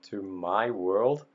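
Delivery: slow, loud rising disbelief; incredulous repeat. Retold or imitated. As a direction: repeat it, stunned by the phrase. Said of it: "Who would talk like that?".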